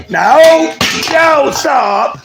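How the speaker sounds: high sharp command to a dog. Real, not acted. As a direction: stop the dog fast. Stopping the dog.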